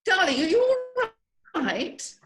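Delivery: high, tearful worried question; anxious concern. Acted. Cynthia to the fallen Simon, worried and near tears. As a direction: fret over him near tears.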